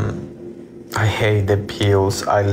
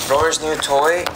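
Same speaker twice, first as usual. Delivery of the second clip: high, rising disbelieving question; surprised; 6 semitones higher than usual. Real, not acted. Surprised while reading a viewer's comment aloud. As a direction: repeat it as if you can't believe it.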